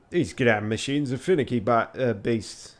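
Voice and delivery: grumbling, lightly attempted Yorkshire; Yorkshire accent. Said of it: "grumbled in a thick Yorkshire accent".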